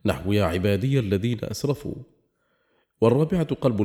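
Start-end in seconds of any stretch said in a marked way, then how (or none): 0.0-1.9 "يا عبادي" linked on as "عباديَ الذين"; ya with fatha. Shown as a demonstration. Grammar teacher showing the vocative ya carrying a fatha. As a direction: say "عبادي" as "عباديَ", final ya voiced with a short a. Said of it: "إثبات الياء مفتوحة".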